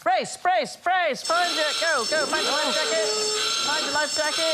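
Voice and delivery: high urgent shouted commands; crew shouting brace. Acted. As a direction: yell brace orders at passengers. Host shouts crash instructions.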